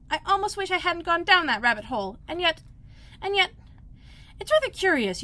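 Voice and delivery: put-on a girl musing aloud; Alice's voice. A narrator's reading. Alice musing to herself in a girlish voice.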